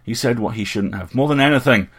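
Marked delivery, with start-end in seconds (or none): 1.1-1.9 much louder, forced through the teeth; captain forcing out his answer, much louder and seething; ground out. A narrator's reading. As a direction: grind the words out in anger. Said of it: "he ground out".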